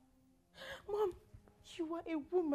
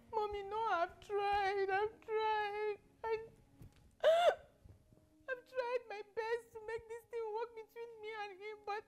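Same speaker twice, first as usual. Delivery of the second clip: tearful pleading; 2 semitones higher than usual. Acted. Daughter pleading to her mother through tears. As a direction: voice breaking on tried.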